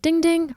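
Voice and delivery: high sing-song ding ding; notification chime. Retold or imitated. Imitating the review alert on her phone, sing-song.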